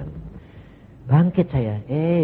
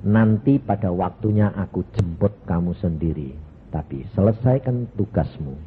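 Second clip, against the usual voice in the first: calm voice of Jesus; 6 semitones lower than usual. Retold or imitated. Jesus speaks calmly.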